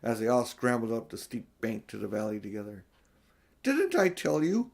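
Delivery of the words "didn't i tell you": high, slow, triumphant question; excited answer. Acted. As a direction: crow I told you so, thrilled. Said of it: "answered Mister Beaver".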